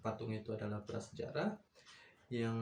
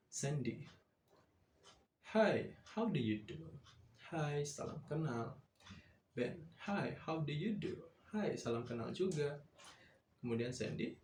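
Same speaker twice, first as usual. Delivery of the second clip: reading a dialogue aloud. Shown as a demonstration. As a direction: read both parts for students to repeat, lightly voiced. Teacher reads dialogue aloud.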